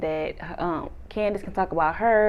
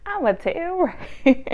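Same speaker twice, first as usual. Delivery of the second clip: mock tattling; 9 semitones higher than usual. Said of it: "He was like".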